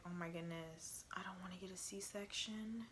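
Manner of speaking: hushed, breathy panic under her breath; scared whisper. Retold or imitated. Mom whispering her fear at the C-section news. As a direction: whisper it so only your boyfriend hears.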